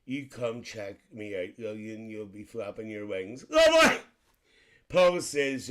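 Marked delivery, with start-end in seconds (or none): 3.5-4.0 high shrieked lovely; squealed lovely. Real, not acted. Reading a comment, shrieks her catchphrase lovely.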